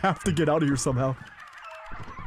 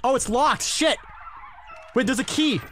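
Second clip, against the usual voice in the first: yelling across the room; 8 semitones higher than usual. Real, not acted. Calling out to teammates while searching.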